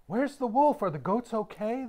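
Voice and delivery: high, loud alarmed cry; breathless panicked villagers; gasping villagers. A narrator's reading. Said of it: "the villagers gasped".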